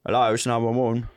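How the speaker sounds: low-key Cockney call answer; Cockney 911 operator. Acted. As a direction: answer the emergency line in Cockney. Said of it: "is Cockney".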